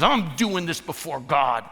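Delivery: slow, mildly scornful comeback; contemptuous retort. Acted. David answering Michal in the same tone, mock scornful retort. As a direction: throw it back with a touch of contempt. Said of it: "with the same tone".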